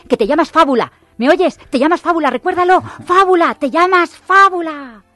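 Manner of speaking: loud, high, insistent drilling; emphatic insistence. Acted. The Lie drilling Truth on her name, loud insistent. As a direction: hammer the name into her memory.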